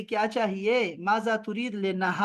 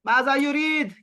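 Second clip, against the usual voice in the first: माजा युरीद louder and higher, insistent; emphatic; 5 semitones higher, 4 dB louder than usual. Shown as a demonstration. Teacher correcting the girl, louder insistent model. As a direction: push it out firmly so she hears it. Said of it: "पूरा जुमला बोलो लड़की".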